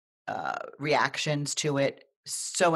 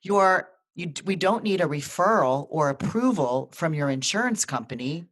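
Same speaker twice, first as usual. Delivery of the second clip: excited nurse; 3 semitones higher, 4 dB louder than usual. Retold or imitated. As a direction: deliver good news like it can't wait. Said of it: "She goes".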